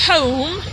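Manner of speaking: home with the H sounded; careful home, H and long O; standard home. Shown as a demonstration. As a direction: say home fully, clear breathy H at the start. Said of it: "We don't say".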